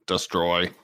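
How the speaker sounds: slow stiff robot monotone. Pretend. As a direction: speak like a metallic robot. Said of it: "Why do you sound like a robot?".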